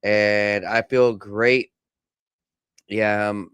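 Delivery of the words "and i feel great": slow, dry sarcastic tone. Real, not acted. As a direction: say it like you mean the opposite. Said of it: "I'm being sarcastic".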